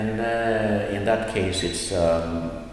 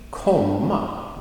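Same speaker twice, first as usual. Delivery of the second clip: "komma" stretched with full emphasis; emphasized komma; 3 semitones higher than usual. Shown as a demonstration. Teacher marking the main verb, "komma" emphasized.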